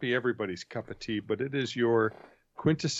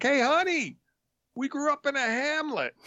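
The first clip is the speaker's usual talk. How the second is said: Fauci impression. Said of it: "I sound a little bit like Doctor Fauci there".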